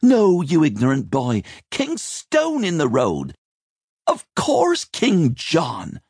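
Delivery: put-on high, indignant older woman; scolding chambermaid out of patience; exasperated scold. A narrator's reading. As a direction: correct an ignorant boy, impatient and shrieky high. Exasperated Rachel corrects Simon.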